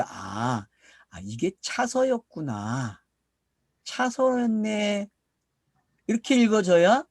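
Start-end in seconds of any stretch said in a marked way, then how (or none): 0.0-5.1 slow, drawn-out "aah, I see" of someone catching on; dawning realization. Acted. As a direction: act out the penny dropping, stretching the words. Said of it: "그러면 이제 눈치채야지". (천천히 길게 늘이는 깨달음의 말투)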